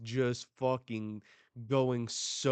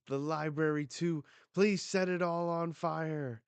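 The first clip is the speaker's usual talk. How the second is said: higher, insistent acted plea; pleading; 5 semitones higher, 3 dB louder than usual. Elder begging them to burn the library, pleading. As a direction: plead with raised pitch.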